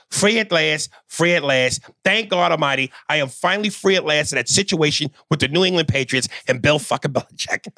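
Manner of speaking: mock King speech. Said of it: "he ends it the famous way".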